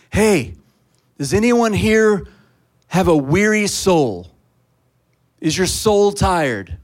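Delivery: loud, slow street-corner call; carnival barker shout. Retold or imitated. Preacher calling out to the street crowd, loud and slow. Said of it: "I'm just like a carnival barker".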